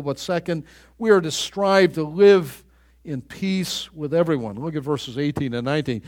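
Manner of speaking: ordinary talk, nothing marked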